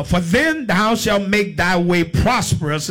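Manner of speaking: measured, declaimed Bible reading; preacher reading scripture, drawing out the phrase endings. Real, not acted. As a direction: read the verse out to a congregation. Reads scripture to congregation.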